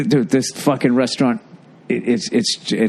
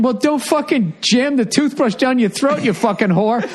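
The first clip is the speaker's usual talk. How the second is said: raised, harsh inner rant; retold angry thought; 7 semitones higher than usual. Thinking angrily at the guy choking in the bathroom, mock snarl. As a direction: snap it out like a furious thought.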